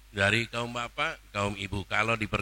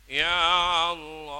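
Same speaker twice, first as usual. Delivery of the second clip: inner cry; 7 semitones higher, 3 dB louder, slower than usual. Shown as a demonstration. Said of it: "teriak dengan hati".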